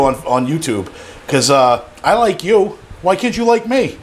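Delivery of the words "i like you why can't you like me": much higher, jokey whiny plea; playful higher plea for likes; mock pleading. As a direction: beg the viewers for a like, half joking.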